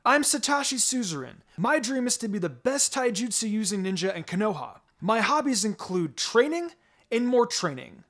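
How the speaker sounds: cocky grin. Acted. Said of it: "he grinned".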